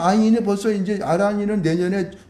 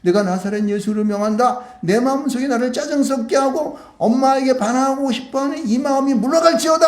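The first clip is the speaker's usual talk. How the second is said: commanding prayer; 4 semitones higher than usual. Shown as a demonstration. Preacher showing children how to cast out irritation, commanding. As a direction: build to a higher-pitched command. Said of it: "그렇게 명령하시기 바랍니다".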